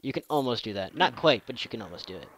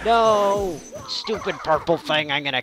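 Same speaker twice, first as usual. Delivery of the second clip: mock rage; 7 semitones higher, 6 dB louder than usual. Real, not acted. Player rages at game enemy.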